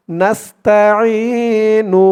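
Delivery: নাস্তাইনু said slowly, syllable by syllable; slow recitation. Shown as a demonstration. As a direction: stretch নাস্তাইনু evenly. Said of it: "যেমন টান করব". (নাস্তাইনু ধীরে টেনে)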